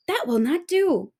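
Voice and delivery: determined mermaid. Acted. Mermaid resolves.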